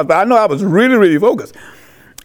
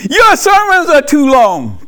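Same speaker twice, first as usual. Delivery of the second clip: higher, slow whiny complaint; mock critic; 5 semitones higher than usual. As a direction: whine it like a churchgoer who is fed up. Mocking what critics say.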